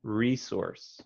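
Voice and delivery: "Resource" with the first E said like the letter E; long E. Shown as a demonstration. Tutor models the long E for the student. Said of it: "pronounce the E like the letter E".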